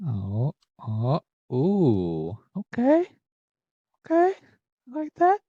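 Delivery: squealing high with delight; excited. Real, not acted. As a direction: yelp up high at the pull. Good pull reaction.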